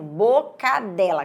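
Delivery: Boca dela said slowly as bo... cadela; split syllables in Boca dela. Shown as a demonstration. Teacher showing hidden word cadela, Boca dela slowly split after bo. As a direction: separate the bo, run ca into dela in Boca dela.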